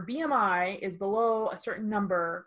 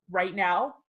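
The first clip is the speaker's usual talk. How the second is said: 1 exasperated disbelief; 2 semitones higher, 6 dB louder than usual. Retold or imitated. Exasperated at barista's question.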